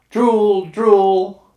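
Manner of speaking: high, loud call over the water; shouted back. Acted. Children shouting goodnight back across the lake, high and loud. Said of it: "they shouted back".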